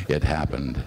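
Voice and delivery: literary recital, phrases falling away; poetry reading. Acted. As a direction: bring the poem to a measured close. Reads the poem's ending.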